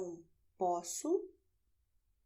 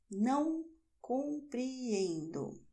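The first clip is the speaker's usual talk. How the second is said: stretched-out teacher demo of Não compreendo; slow classroom modelling; slow careful model; 3 semitones higher than usual. Shown as a demonstration. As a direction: say Não compreendo slowly, weighing each syllable. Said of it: "teacher models phrase, then repeats it".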